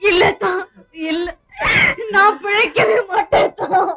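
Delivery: despairing wail. Acted. Woman tells family she will not survive, wailing in despair.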